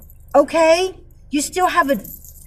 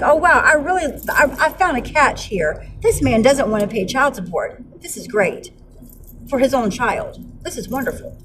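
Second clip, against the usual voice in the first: sarcastic mock delight. Mocking ex's new partner's catch, sarcastic. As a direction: voice her delight with fading, scornful irony. Mocks the woman's imagined delight.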